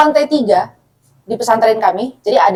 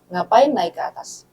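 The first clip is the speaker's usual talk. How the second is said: slower, softer and gentle "Ngapain naik ke atas?"; asked kindly; 3 semitones lower, 5 dB quieter than usual. Retold or imitated. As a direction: ask it softly, like a patient older sibling. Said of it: "Saya tanya baik-baik".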